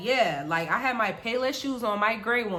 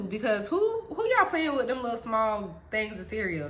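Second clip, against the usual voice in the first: laughing. Real, not acted. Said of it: "laughing while telling".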